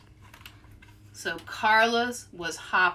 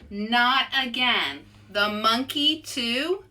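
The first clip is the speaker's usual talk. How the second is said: exasperated; slower than usual. Acted. Carlos upset by another sign.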